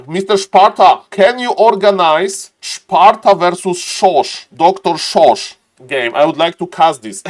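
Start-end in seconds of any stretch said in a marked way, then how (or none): 0.1-6.1 slow, higher mock-German name announcing; hammed-up German accent on the names; fake German accent. Caster asks Mister Sparta to organize a match, fake German accent. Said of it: "fake German accent".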